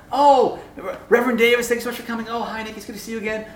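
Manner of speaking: mock pleasantries on meeting; polite greetings. Professor greeting her guest, mock-polite.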